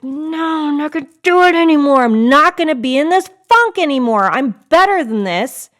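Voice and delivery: firm, loud vow to herself; determined self-talk. Retold or imitated. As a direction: say it like you're finally done with it. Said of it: "And then I was like".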